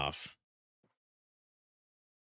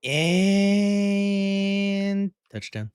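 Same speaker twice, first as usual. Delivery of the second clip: announcer touchdown; 11 semitones higher, 4 dB louder, much slower than usual. Pretend. Landing the flight.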